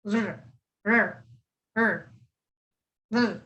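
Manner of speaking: short weak rrr with the tongue rolled too little; weak R demo. Shown as a demonstration. Teacher shows students the wrong underrolled R, repeated rrr. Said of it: "If you roll it too little, it would sound like".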